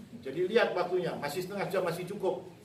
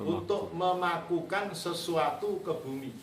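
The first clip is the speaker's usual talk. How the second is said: slow dictation; slower than usual. Real, not acted. Repeating the dictation for students.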